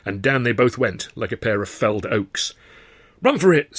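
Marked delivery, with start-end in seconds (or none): 3.2-3.8 loud, high yell to flee. A narrator's reading. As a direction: yell it as the doors fly open. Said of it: "Sid yelled".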